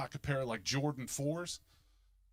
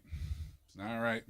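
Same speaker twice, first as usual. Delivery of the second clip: slow; 5 semitones lower, much slower than usual. Acted.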